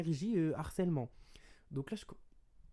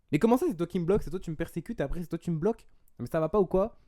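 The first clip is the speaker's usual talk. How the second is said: loud, higher mock outrage; enraged Frenchman; 4 semitones higher, 8 dB louder than usual. Reacting to the guy blocking him, indignant retold rant. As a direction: act out an indignant protest at being blocked. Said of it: "le français enragé".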